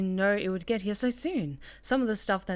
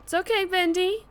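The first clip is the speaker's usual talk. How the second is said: comforting; 4 semitones higher than usual. Acted. Comforting the little Bendy companion.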